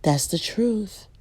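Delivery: slow breathy whisper of a verdict. Real, not acted. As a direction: let it sink in, barely voiced. Preacher drives point home.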